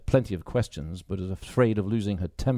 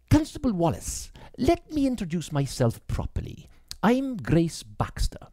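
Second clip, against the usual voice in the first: put-on higher, hesitant young woman; young woman's voice; 10 semitones higher than usual. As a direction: bite back the questions politely. Grace introduces herself.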